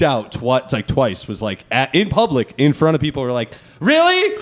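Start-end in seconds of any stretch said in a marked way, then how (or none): 3.8-4.4 high squeaky incredulous Really; imitating her shocked Really; mock incredulous. Mimicking the girl's shocked reaction in public, high and incredulous.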